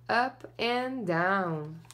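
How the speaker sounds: usual speaking voice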